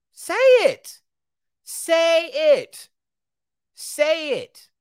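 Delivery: loud, high, forceful "say it"; shouted dare. Real, not acted. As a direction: shout it as a challenge. Daring people to say it.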